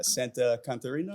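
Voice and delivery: "Santa Catarina" with Anglicized American vowels, rising; american accent spanish. Real, not acted. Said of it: "I sounded like a gringo there".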